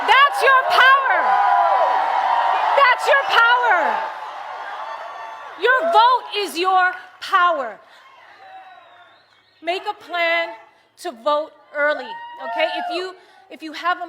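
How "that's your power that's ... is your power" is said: slow, louder, higher, stress on "your"; emphatic slow shout. Real, not acted. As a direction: hammer each word home slowly. Emphatic rally point.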